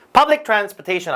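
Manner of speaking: "Public" punched at the front; slow demo, hit "Public" first; stress on front word. Shown as a demonstration. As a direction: lead with a strong "Public". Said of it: "앞에 강세".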